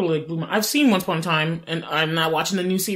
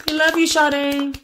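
drawn-out, higher adoring shout-out; slow, adoring dedication; slow fan tribute; 7 semitones higher, slower than usual. Real, not acted. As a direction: gush over a singer like a fan.

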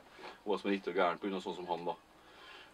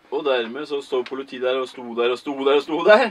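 raised, worked-up voice; hammering the repetition, louder; loud agitated telling; 4 semitones higher, 14 dB louder than usual. Real, not acted. Agitated retelling, rising. (opphisset og høylytt fortelling)

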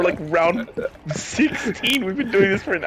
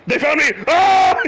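sudden yell, louder and higher; panicked shout; 4 semitones higher, 3 dB louder than usual. Real, not acted. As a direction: cry out in alarm. Spotted by enemies in game.

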